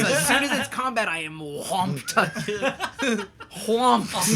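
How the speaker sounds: laughing lament. Real, not acted. Player mock-lamenting bad luck.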